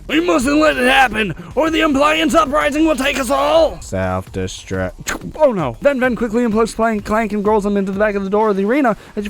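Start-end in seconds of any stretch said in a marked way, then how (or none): 0.1-3.8 dramatic warning. Acted. Character warning of uprising. 3.8-5.3 robot voice. Acted. Robot self-destruct command.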